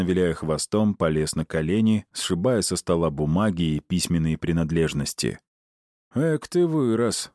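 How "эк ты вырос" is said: high, slow fond chuckle; tender teasing of an old pet; amused chuckle. A narrator's reading. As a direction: grin through the words at the big dog. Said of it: "усмехнулся Аид".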